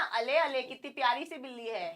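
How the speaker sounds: put-on soft baby talk to a cat; cooing at kitten. Teacher shows how people coo at a cute cat, softly cooing. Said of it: "बिल्ली को प्यार से बोलते हैं".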